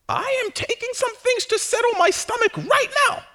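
high-pitched comic shout. Real, not acted. Joking about own nerves.

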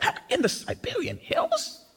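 high, mocking, incredulous voice; mock disbelief. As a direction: scoff at them in a high squeaky voice. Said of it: "We're rolling our eyes like".

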